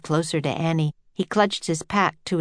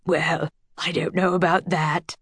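modestly. A narrator's reading. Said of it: "the professor said modestly".

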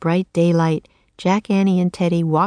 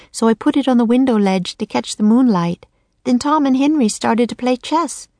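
put-on higher, eager young girl telling; a castle girl explains, slightly raised; lively girl voice; 5 semitones higher than usual. Girl tells the story of the theft.

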